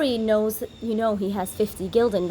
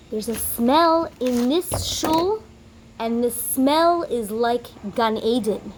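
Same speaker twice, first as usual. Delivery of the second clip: awed wonder; slower than usual. Acted. Rabbi marvels at the smell.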